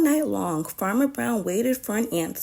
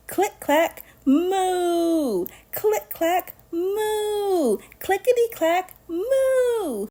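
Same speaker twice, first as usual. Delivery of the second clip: rising refrain; 8 semitones higher, much slower than usual. Acted. Reader building the typing refrain, pitch climbing. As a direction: click clack moo climbing in pitch.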